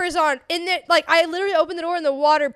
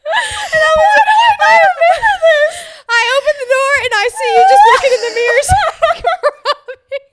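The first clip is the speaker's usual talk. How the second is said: excited high retelling; 9 semitones higher, 7 dB louder than usual. Retold or imitated. Shocked retelling, walking in on someone.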